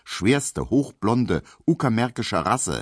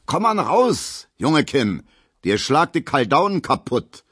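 calling after; 8 semitones higher, 5 dB louder than usual. Acted. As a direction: bellow after him in Berlin slang. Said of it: "ruft Gustav Schmelow hinterher".

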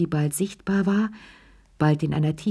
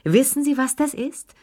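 higher, more excited repeat; 8 semitones higher than usual. A narrator's reading. Lilli repeats her boast to the guests, pitched high and giddy. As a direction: push the repeat higher and giddier. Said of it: "rief die Anwesenden als Zeugen auf".

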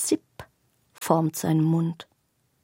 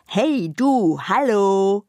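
a lightly raised, louder call from a toy bag; voiced talking bag; 5 dB louder, slower than usual. A narrator's reading. Chatty bag calling to the intruder, eager. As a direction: hail her from the bed, perky.

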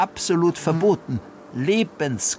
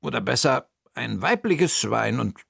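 higher, lively aunt puzzling; raised character voice solving a riddle; Bertha's voice; 6 semitones higher than usual. Acted.

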